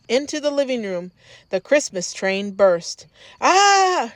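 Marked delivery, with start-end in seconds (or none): 3.4-4.1 loud startled cry from Dad; startled shout. A narrator's reading. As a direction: jump out of your skin and shout. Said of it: "shouted Dad".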